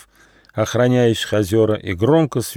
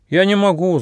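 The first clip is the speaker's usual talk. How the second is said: crying out; 10 semitones higher than usual. Acted. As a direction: protest sharply, higher up. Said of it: "закричал Ежонок".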